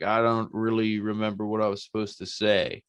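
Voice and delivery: mock-dopey, hesitant recital; mock forgetful Riddle. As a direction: imitate a performer lost for his line. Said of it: "I forget my line".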